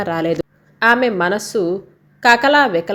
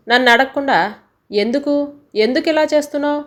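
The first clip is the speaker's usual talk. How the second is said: higher and rushing, an angry demand; 5 semitones higher than usual. Acted. Husband angrily confronts wife over packed suitcase, fast and higher. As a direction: fire the question at her, fast and hot.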